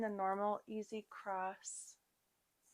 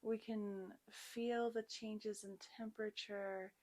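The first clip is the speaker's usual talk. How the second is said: guided yoga meditation. Real, not acted. Yoga teacher guiding students to set an intention, calm guided meditation. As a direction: settle the class gently into the practice.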